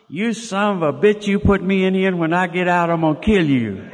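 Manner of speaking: half-hearted angry threat; angry wife quote. Retold or imitated. Wife threatening husband over the phone, mild mock anger. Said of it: "this is what was said".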